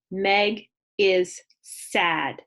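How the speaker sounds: Meg is sad, slow and smooth in one breath; read fluently. Shown as a demonstration. Teacher modelling a fluent read for kindergartners. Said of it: "read it again fluently".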